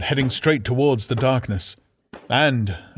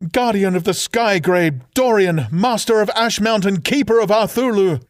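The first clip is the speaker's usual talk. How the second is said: solemn farewell; 6 semitones higher, 4 dB louder than usual. Acted. Sister's solemn farewell speech.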